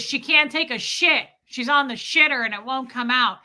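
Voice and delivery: loud retold public announcement; dad announcing loudly. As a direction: broadcast it to the whole crowd. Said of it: "he says out loud".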